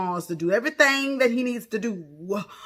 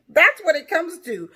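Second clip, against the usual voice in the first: laughing; 10 semitones higher, 9 dB louder than usual. Real, not acted. Laughing commentary.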